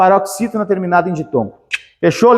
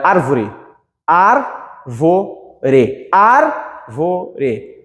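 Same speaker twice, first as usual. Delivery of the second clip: ÁRvore with the first syllable held strong; árvore stressed on the antepenultimate; 3 semitones lower, much slower than usual. Shown as a demonstration. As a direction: lean on the ÁR in árvore. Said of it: "Ar é mais forte".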